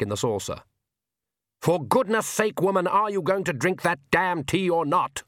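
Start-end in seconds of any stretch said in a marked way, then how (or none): 1.6-5.2 roaring. Acted. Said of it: "roared the Count".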